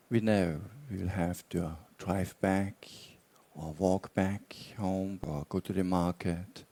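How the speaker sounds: measured meditation guidance with long pauses; guided meditation. Real, not acted. Teacher guiding meditators to relax and explore intentions, guided meditation. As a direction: guide them unhurriedly, leaving long silences between phrases.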